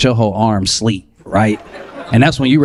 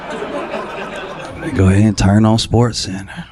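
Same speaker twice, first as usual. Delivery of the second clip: resigned; 4 semitones lower, slower than usual. Retold or imitated. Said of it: "Here we go".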